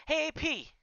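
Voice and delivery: high, loud call to the door; yelling. Acted. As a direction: shout it up at the building. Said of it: "Deck yells at the door".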